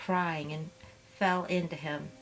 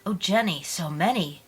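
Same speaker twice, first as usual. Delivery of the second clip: dismayed sympathy; 6 dB louder than usual. Acted. Hearing of twenty-six wounded men.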